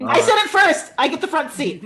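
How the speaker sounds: high, loud claim of first dibs; mock-competitive yell, ending in laughter; playful shout. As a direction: call it out like a kid racing for the car.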